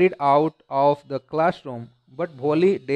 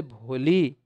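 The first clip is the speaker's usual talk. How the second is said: said lovingly; 2 semitones lower, much slower than usual. Acted. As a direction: call भोली gently like a kind teacher. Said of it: "प्यार से बोले".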